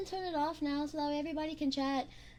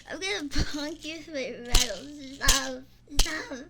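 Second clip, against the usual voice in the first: playful loud threat; 7 dB louder than usual. Pretend. Mock threat to chat.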